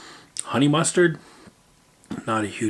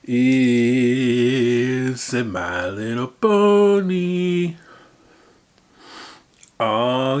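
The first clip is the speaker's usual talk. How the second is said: amused discovery; 3 dB louder, much slower than usual. Real, not acted. Finding toy-like snack.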